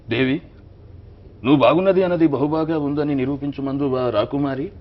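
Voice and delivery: sharp, youthful film-hero voice; young Balakrishna. Retold or imitated. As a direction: woo the princess like a young prince. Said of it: "Bhairava దీపంలో చాలా యంగ్గా, షార్ప్గా".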